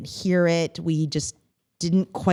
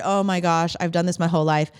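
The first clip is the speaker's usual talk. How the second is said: usual speaking voice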